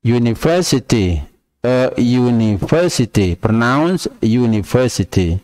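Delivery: "university" starting with a y sound, "yu". Shown as a demonstration. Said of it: "Diucapkannya university". ("university" diawali bunyi yu)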